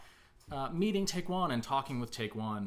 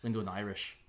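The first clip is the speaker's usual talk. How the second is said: easy, sustained Irish accent; playful Irish accent demonstration. Shown as a demonstration. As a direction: chat along in an Irish accent. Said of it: "slip into nothing else when doing Irish".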